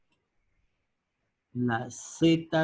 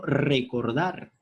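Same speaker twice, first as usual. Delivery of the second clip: slow example word; slower than usual. Shown as a demonstration.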